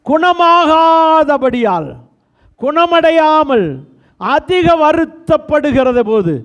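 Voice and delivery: slow reading. Acted. Preacher reading scripture slowly.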